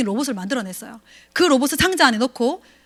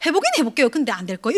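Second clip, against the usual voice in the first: reluctant partner voice; 4 dB quieter than usual. Retold or imitated. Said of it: "이렇게 얘기해".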